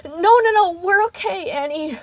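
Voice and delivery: high, loud, pleading voice; anxious reassurance. A narrator's reading. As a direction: rush in to smooth things over. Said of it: "fiddling anxiously with her arm warmers".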